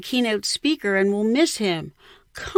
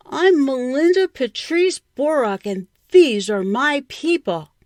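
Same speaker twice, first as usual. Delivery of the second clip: higher and louder, a proud declaration from a hilltop; proud imagined shout; 7 semitones higher, 5 dB louder than usual. Pretend. Girl dreaming of shouting from a hilltop, proud call. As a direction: announce it to the world, chest out. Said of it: "stand on the top of a hill and shout".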